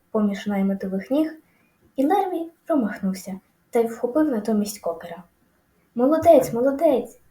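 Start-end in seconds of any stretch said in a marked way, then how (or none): 5.9-7.2 high, loud cheering; honking cheer. A narrator's reading. Goose cheering Wilbur after the farmhand misses, honking cheer. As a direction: cheer like an excited goose, pitch up. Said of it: "гагакала гуска".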